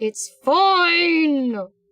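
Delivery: high, teeth-clenched, forced out, "fine" stretched. Frustrated artist insisting things are fine, through gritted teeth. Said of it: "I say through gritted teeth".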